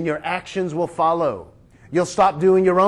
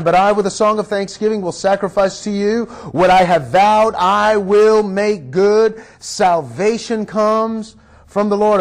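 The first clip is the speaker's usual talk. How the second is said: crying out to God; 2 semitones higher than usual. Retold or imitated. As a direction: preach the quoted vow out firmly. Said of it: "he's crying out to God".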